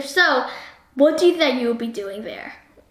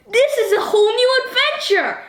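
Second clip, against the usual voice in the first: mock excitement; 9 semitones higher than usual. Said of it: "Would you be like".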